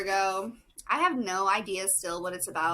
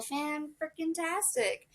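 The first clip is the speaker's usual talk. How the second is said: higher, slower hammed-up enthusiasm; exaggerated excitement; 8 semitones higher, slower than usual. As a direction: stretch it out like it's fantastic. Silly exaggerated greeting.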